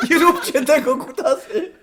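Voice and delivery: laughing protest. Real, not acted.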